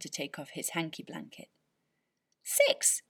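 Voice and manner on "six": shouted. Acted. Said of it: "he shouted".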